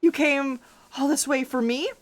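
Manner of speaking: high, coy mock gushing; mock flattered teasing. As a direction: tease him sweetly. Teasing the returning character.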